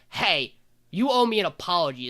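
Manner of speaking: mock confrontation. Anna confronts Adonis for an apology, mock indignant. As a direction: imitate someone marching up to complain.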